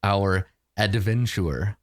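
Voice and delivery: slow, portentous game master delivery; Dungeon Master voice. Acted. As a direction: draw it out like a theatrical Dungeon Master. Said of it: "put on my best Dungeon Master voice".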